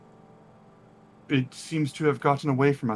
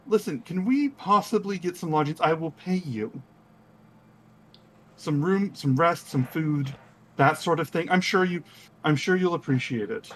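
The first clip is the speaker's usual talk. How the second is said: Quinn; 3 semitones higher than usual. Acted. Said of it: "He goes".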